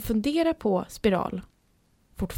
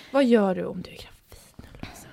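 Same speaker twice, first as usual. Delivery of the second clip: whisper; 2 semitones lower than usual. Real, not acted. Teasing question to friend.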